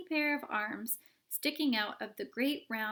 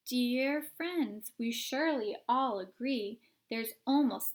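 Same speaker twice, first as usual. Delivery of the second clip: bouncy sung-story recitation with a steady beat; rhyming song poem. Acted. Oompa Loompas singing a warning rhyme, rhythmic. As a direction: recite it like a chant.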